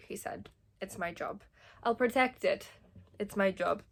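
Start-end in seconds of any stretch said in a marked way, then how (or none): 1.8-3.8 badly faked Sokovian accent; awful Sokovian accent. Reader mimicking a line about the job, awful Sokovian accent. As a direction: put on a clumsy Sokovian accent. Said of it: "Don't mind my awful Sokovian accent".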